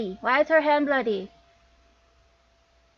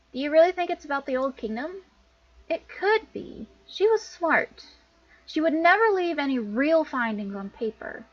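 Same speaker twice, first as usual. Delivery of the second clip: higher-pitched voice, earnestly hopeful; eager game character; 5 semitones higher than usual. Acted. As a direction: argue hopefully, pitch lifted.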